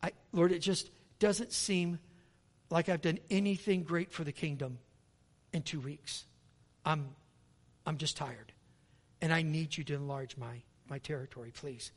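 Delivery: soft, tired, fading plea; a worn-out man praying quietly; weary prayer. Retold or imitated. Lonely traveller praying softly, tired and worn out. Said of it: "He said".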